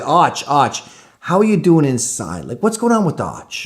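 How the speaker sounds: mock concerned counselor. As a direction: coo at him like a nosy counselor. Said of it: "he said".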